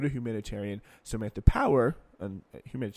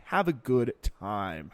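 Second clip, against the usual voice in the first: dismissive slow; much slower than usual. Retold or imitated. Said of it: "he told me".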